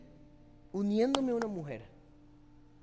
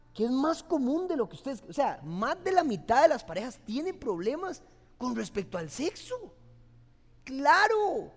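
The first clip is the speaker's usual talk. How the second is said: loud, higher, fervent warning; full-force preaching; 6 semitones higher, 6 dB louder than usual. Real, not acted. Pastor warning the congregation about marriage, loud and fervent.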